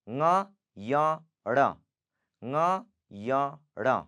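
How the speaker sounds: ng, yang, ण slowly through mouth and nose; ng, yang, ण recited separately, nasalised; nasal letter sounds. Shown as a demonstration. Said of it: "you have to pronounce from mouth and nose".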